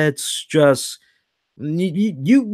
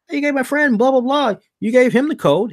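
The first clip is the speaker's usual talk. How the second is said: high, raised mock confrontation; retold angry confrontation; 11 semitones higher, 3 dB louder than usual. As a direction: replay the customer's outrage, pitched up high. Customer confronting the store clerk.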